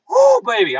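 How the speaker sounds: high, loud excited whoop. Real, not acted. Host hyping his viewers, high excited whoop. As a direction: whoop it up as you get rolling. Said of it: "I'm just getting rolling now".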